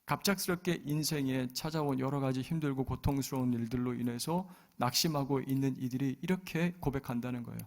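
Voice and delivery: ordinary talk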